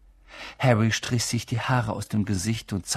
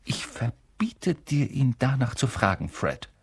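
stern mother; 3 semitones higher than usual. Acted. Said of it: "Ihre Mutter wurde plötzlich sehr ernst".

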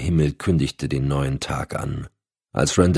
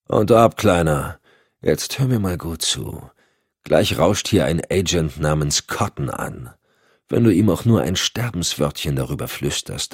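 menacing D'Alessio. Acted. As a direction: lean in and threaten calmly. D'Alessio droht Randall. (drohend, leise und langsam)

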